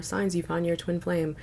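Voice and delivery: flat, robotic listicle read. Retold or imitated. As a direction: read it like a monotone YouTube robot. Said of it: "that robotic voice that's like".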